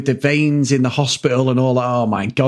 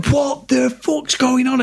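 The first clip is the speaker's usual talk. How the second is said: higher, slow alarmed question; mock panic; 9 semitones higher, slower than usual. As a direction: replay the panic in the water, drawn out. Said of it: "So I'm panicking, going".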